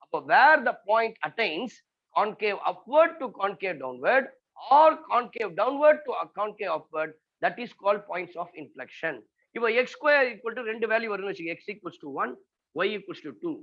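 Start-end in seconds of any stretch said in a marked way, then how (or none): 0.0-9.2 each word spaced out for note-taking; slow dictation. Shown as a demonstration. Maths teacher dictating a definition to students, slow and measured. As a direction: dictate it slowly so they can write.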